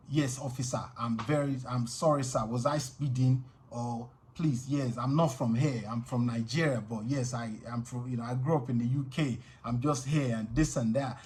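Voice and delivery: put-on polite Nigerian accent; humble Nigerian accent for an officer. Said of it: "my strongest African accent always coming".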